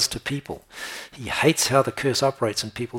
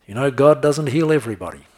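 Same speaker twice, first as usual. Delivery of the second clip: mocking preacher; 4 semitones higher, 8 dB louder than usual. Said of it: "I heard one preacher get up".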